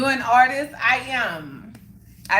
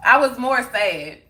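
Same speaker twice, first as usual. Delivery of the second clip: laughing; 7 dB louder than usual. Real, not acted. Laughing at herself.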